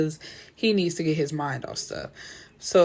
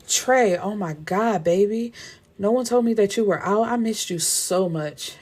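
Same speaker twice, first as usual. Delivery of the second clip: lightly acted gushing, raised pitch at the start; excited reunion; 3 semitones higher than usual. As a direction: retell her thrilled greeting with mild gush. Old flame flings herself at Trey.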